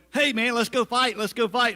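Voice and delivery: high, loud gung-ho call; rally them like a hothead kid; young David urging men to fight, loud eager call; eager shout. Retold or imitated.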